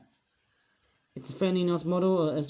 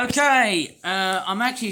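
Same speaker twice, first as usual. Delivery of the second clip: exasperated burst; 4 semitones higher, 5 dB louder than usual. Pretend. Still worked up after outburst.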